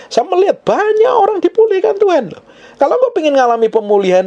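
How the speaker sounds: very high, impassioned preaching; preacher at full pitch; fervent testimony. Real, not acted. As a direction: proclaim it with soaring pitch.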